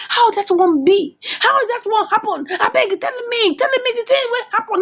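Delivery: high-pitched shocked questioning; retold panic in a high voice; alarmed pleading. George reacts to killing news.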